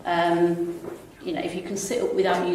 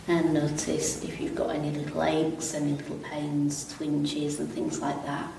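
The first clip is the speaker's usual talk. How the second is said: calm, unhurried stretch instructor; easy, even yoga-class delivery with long pauses; guided relaxation; 5 dB quieter than usual. Real, not acted. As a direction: guide them gently through it, pausing between phrases. Leads gentle seated stretches.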